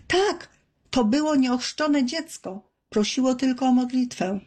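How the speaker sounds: high, heated self-reproach; an angry fisherman scolds his friend for their cowardice. A narrator's reading. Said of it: "splunął ze złością".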